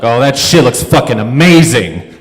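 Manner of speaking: loud acted moviegoer outburst; imitating yelling. Lone guy heckling the trailers, mock yelling. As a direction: yell it at the screen like a heckler. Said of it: "he's just kind of yelling stuff".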